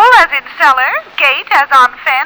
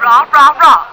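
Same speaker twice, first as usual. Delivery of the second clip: college cheer; 3 dB louder than usual. Acted. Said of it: "Stop cheering".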